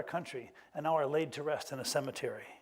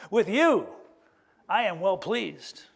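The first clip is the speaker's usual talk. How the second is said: blessing; 3 semitones higher, 6 dB louder, slower than usual. Pretend. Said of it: "I wanted to say".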